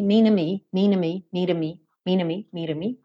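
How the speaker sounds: "minami" with a clear n. Shown as a demonstration. Teacher contrasts "minami" with the tapped version. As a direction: say "minami" with a plain n sound. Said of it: "o meio do caminho entre minami e minrami".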